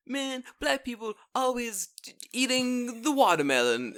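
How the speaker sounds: high, bad put-on black voice; lightly voiced, badly faked African American accent. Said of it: "Your black voice is not very good".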